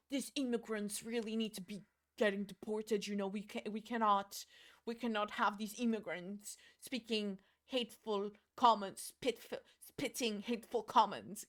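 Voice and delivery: lightly put-on British politician; badly faked, halting stump speech; Rishi Sunak impression. Streamer imitating the prime minister on immigrants, mock-earnest. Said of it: "That's what Rishi Sunak speaks".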